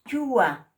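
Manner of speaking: "Chua" said loud and clear with a plain ch; plain ch model. Shown as a demonstration. Teacher modelling the plain ch in Aymara. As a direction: model "Chua" loudly for repetition. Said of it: "cuando se pronuncia la che limpia".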